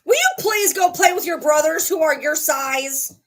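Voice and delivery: yelling at the dog. Real, not acted. Owner yelling at puppy beating up old dog, loud. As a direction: call out sharply to stop the puppy. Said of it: "I'm gonna yell at him".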